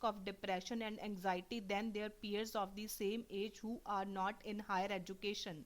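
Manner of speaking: slow, careful exam read-aloud voice; slow test reading. Shown as a demonstration. Teacher demoing a PTE read aloud, slow and careful. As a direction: read it out word by word for the software.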